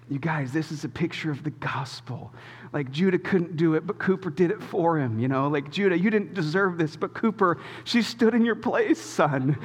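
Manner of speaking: sermonize gently from the front seat; a hint of pulpit preaching; dad pastor mode. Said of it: "full dad pastor mode".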